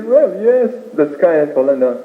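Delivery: high-starting, lightly acted admission; cornered rabbit. Rabbit answering while everybody looks, lightly acted high reply. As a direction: play the rabbit owning up to the rumor.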